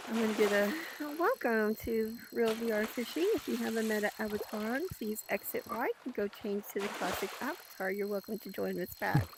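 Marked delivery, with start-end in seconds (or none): 1.2-9.3 lightly voiced flight attendant announcement; airline stewardess. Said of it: "I'm gonna sound like an airline stewardess".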